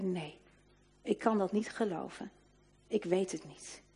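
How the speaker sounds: quiet, small voice of a despairing woman; soft, defeated reply; hushed confession. Retold or imitated. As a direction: let it sink almost to nothing. Woman confesses she cannot believe.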